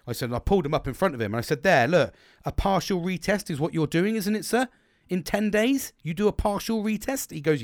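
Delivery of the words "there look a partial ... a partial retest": raised, pointed questioning; retold challenge, higher and insistent. Ex-tester shows mechanic the regulations, pointedly challenging.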